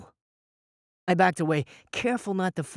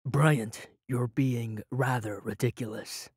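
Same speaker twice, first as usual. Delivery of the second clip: exasperated; 5 semitones lower, 3 dB quieter, slower than usual. Acted. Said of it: "Eric exasperated".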